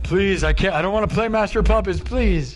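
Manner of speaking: high, whimpering mock plea; panicked pleading. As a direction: beg desperately as if waking from a nightmare. Acted waking plea to screaming voices.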